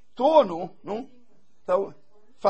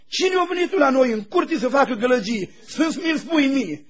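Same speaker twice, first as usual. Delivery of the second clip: angry husband; 3 semitones higher, 4 dB louder than usual. Retold or imitated. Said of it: "dar el era, iute".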